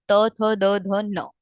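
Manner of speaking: त थ द ध न spaced out one by one; teacher spelling out त थ द ध न slowly; slow letter recital. Shown as a demonstration. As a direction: count off त थ द ध न very slowly for the class. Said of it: "तू again क्या".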